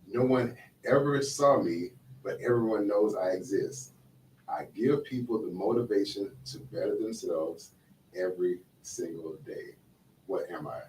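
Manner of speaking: slow, measured riddle delivery; deliberate quizmaster read with pauses. Acted. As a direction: pose the riddle slowly, line by line. Reads a riddle aloud.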